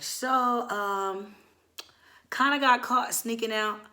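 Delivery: high, hesitant admission with pauses; stall, then timidly own up; sheepish confession. Retold or imitated. Nervously confessing to mom in retelling.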